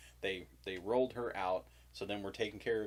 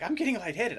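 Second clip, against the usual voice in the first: higher, louder mock panicky wife; imitating wife; 12 semitones higher, 9 dB louder than usual. Husband imitating wife hyperventilating in labor, higher and louder. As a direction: squeak it like she's about to faint. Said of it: "And she's like".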